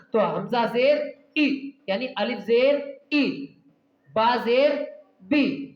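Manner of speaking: slow drill, each letter spaced out; quick short vowel. Shown as a demonstration. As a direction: say the zer sound short, like a teacher drilling. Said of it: "जल्दी पढ़ना है आपको". (शिक्षक की तरह धीमा अभ्यास)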